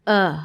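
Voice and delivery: "oh" said as a schwa; short schwa "oh" from the throat. Shown as a demonstration. Teacher repeats the schwa sound. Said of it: "Es una".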